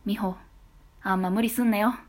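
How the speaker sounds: cool boss voice. Acted. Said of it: "職場でキュンとする言葉二".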